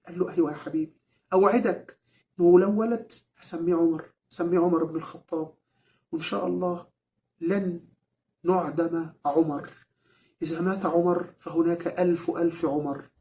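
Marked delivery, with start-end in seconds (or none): none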